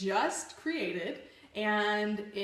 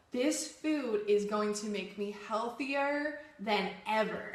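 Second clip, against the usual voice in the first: deliberate, convinced self-affirmation; with conviction. Shown as a demonstration. Telling herself the food will nourish her, with conviction. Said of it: "say it with conviction".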